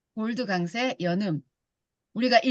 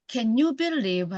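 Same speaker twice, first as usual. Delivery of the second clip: linked reading; 3 semitones higher, much slower than usual. Shown as a demonstration. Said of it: "읽어보면".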